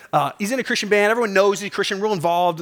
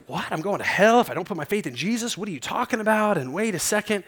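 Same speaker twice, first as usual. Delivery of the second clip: mildly flustered mock disbelief; flustered and frustrated; 4 semitones higher than usual. Coworker reacts to being told she's going to hell, mildly flustered. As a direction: imitate someone taken aback, mildly frustrated. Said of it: "distraught and really frustrated and, and was, like, kind of flustered".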